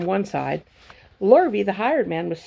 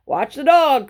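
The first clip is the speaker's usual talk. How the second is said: higher, loud alarm; sheep crying out; 7 semitones higher, 7 dB louder than usual. A narrator's reading. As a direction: cry out a warning. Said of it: "cried the sheep".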